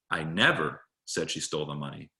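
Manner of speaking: "never" lager en nadrukkelijk gezegd; stress on never. Shown as a demonstration. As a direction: druk het woord "never" aan. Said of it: "emphasizing the underlying word".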